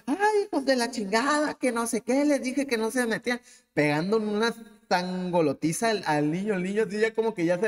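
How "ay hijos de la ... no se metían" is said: high, mock furious mother; a hint of the mother berating her children; mother scolding. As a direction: scold the kids as an angry mom. Angry mother scolding her kids.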